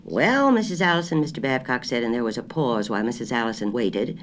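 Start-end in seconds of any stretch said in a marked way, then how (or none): 0.0-1.2 high, loud country grocer straining to hear; a country shopkeeper on a bad line; rustic grocer. A narrator's reading. Grocer asking her to repeat, high and loud.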